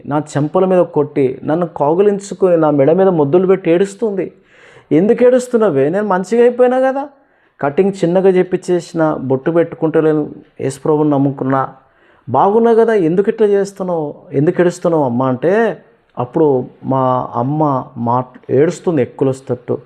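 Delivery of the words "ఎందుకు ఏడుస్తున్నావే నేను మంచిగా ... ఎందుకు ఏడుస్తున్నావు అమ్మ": higher, urgent pleading; pleading with mother. Retold or imitated. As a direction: beg her to stop crying. Son pleading with crying mother.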